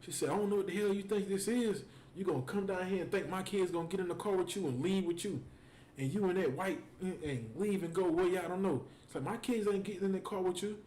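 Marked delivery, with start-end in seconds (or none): 0.3-8.8 imitated indignant tirade, pitched up; mock-scolding at normal volume; going off on him. Baby mama confronting him over the kids, imitated telling-off. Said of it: "she unloaded on his ass". 9.2-10.8 imitated indignant refusal, pitched up; going off on him. Baby mama refusing to let the kids go, imitated anger. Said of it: "Went off on".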